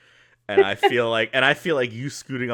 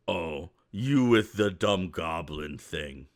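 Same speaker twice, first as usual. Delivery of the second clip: upset ogre; 4 semitones lower, slower than usual. Acted. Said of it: "he looks upset".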